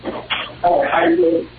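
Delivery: muffled, garbled phone line; underwater. Real, not acted. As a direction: sound like you're underwater. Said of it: "You sound like you're underwater".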